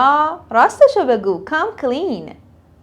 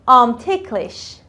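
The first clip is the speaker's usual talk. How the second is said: slow model; much slower than usual. Shown as a demonstration. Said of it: "teacher models phrase slowly".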